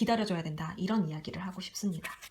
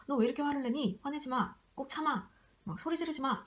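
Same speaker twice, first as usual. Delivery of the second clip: put-on higher-pitched, nagging scold to a child; mock parental scolding, pitched up; 5 semitones higher than usual. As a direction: lightly act a parent telling a child off. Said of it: "제가 이 유아 보고".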